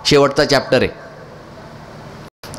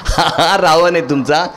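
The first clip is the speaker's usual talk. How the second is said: scornful chuckle carried into speech; mocking, laughing. Real, not acted. Teacher ridicules the audience's Ravana, laughing as he speaks. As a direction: laugh through the words.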